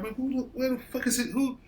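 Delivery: high, loud, fed-up shouting; irritated boss losing patience over the radio; exasperated yell. Retold or imitated. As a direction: blow up at whoever keeps calling on the radio. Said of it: "I'm like".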